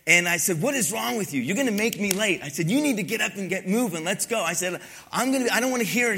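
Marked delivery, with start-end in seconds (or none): 0.6-2.4 put-on sharp, raised scolding of a late teen; impatient scolding. Pastor scolding a sleepy teenager at the door, impatient. 2.7-6.2 put-on sharp, raised scolding of a late teen; impatient scolding. Pastor scolding a sleepy teenager at the door, impatient.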